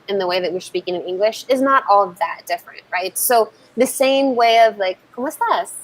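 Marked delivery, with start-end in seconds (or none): 5.2-5.7 "¿Cómo estás?" rising high, then falling; rise and fall. Shown as a demonstration. Coach showing Spanish question melody, rise then fall. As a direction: let "¿Cómo estás?" climb and drop. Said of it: "Like, we have this rise".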